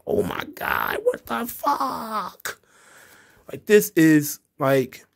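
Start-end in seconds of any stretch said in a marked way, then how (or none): 0.1-2.6 stunned disbelief. Retold or imitated. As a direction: react like you can't believe what you just saw. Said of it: "And I'm just like".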